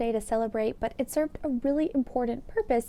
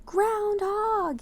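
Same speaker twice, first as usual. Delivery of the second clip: high, loud call of the name; mayor calling out loud; yelling; 12 semitones higher, 5 dB louder than usual. Acted. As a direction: yell his name across the yard. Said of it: "he yelled".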